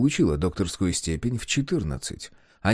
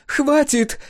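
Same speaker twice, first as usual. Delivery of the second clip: high, loud cry; shout; 5 dB louder than usual. A narrator's reading. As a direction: slam the door on the topic. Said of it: "кричит Тея".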